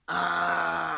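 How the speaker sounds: short demo of a distorted vocal cry. Shown as a demonstration. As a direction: let the back of the throat vibrate on an "ah". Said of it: "letting the back of my throat vibrate against itself".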